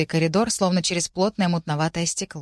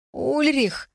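high, wailing cry of the name; frightened call; 8 semitones higher than usual. A narrator's reading. Younger brother calling to Ulrich, high and scared. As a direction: cry out for help.

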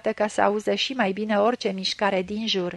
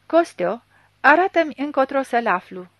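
louder, higher, voice grinding with rage; grinding angry demand; 4 semitones higher, 5 dB louder than usual. A narrator's reading. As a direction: force it out through a grinding throat. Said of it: "glasul orbului a avut un scrâșnet".

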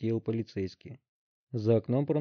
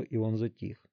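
plain reading voice

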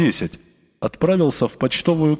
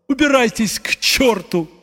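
высоко, надрывно, с плачем в голосе; кричать сквозь подступающие слёзы; крик плачущим голосом; 10 semitones higher than usual. A narrator's reading. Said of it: "крикнул он плачущим голосом". (надрывный крик вслед гостям)

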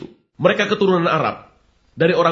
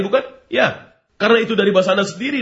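usual speaking voice

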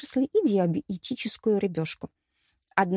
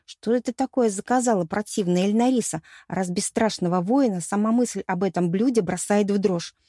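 ordinary delivery, nothing marked

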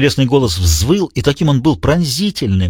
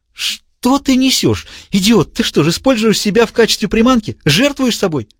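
appalled villain; 9 semitones higher than usual. A narrator's reading. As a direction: reel at his sacrifice. Diogenes voiced high.

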